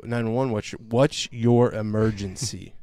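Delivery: slow, deliberate operator phrasing; mock dispatcher. Imitating a 911 operator answering the call, slow. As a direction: stretch it like a phone operator. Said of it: "they answer and they go".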